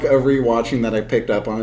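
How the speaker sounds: normal talking voice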